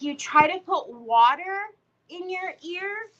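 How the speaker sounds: disbelieving, pitch up high, rising end; incredulous question. Retold or imitated. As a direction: repeat his words back in disbelief. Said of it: "I was like".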